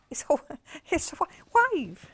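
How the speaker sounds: giggling through the words; laughing. Real, not acted. Host giggling at a confusing wave print on a live sale. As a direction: laugh as you stumble over it.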